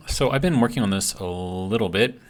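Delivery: slightly slurred from a bitten tongue; talking around a sore bitten tongue. Real, not acted. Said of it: "if it sounds like I'm slurring my words".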